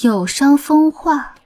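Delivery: slow, drawn-out mimicry; mocking echo. Wife throws the prince's reproach back, mocking. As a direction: parrot the reproach, stretching every syllable.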